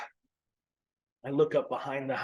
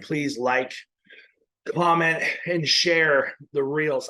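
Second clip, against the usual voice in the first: out of breath; 4 semitones higher, 5 dB louder, slower than usual. Real, not acted. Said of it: "I'm a little out of breath".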